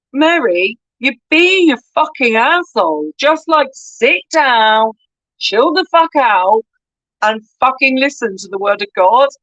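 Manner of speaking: hammed-up Jesus telling Mary to sit down and listen; mock angry Jesus.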